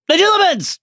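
high, loud incantation with a falling end; spell cast. Acted. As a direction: fling the spell at him. Snape casts spell on Harry.

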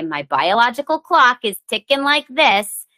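exasperated complaint in a put-on film voice; Marissa Tomei. Quoting My Cousin Vinny on turning thirty, exasperated impression. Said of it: "Marissa Tomei in My Cousin Vinny".

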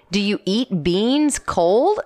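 slow, drawn-out question with rising end; imitated questioning. Wife imitates husband asking about cold beans, imitated questioning. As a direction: mimic a puzzled question, word by word. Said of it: "you go like this".

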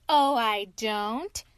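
put-on slow, loud, offended old washerwoman; indignant washerwoman. Mole as washerwoman rebuffing the sergeant. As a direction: bridle at the sergeant's insult.

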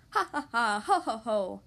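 hearty mock storybook laughter; acted laughing. A narrator's reading. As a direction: read out the pigs' gleeful mock laugh. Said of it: "laughed the two little pigs".

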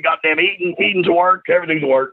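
imitating dad. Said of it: "he's told me everything's a fucking work".

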